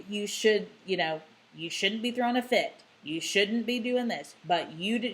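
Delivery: wag the finger and lecture; lecturing parent. Shown as a demonstration. Parent adding a lecture to validation, brisk scolding. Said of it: "the minute you switch into that lecture mode".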